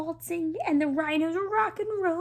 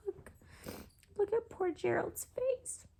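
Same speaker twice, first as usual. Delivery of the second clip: soft; 5 semitones higher, 9 dB quieter than usual. Real, not acted. Aside to child listener.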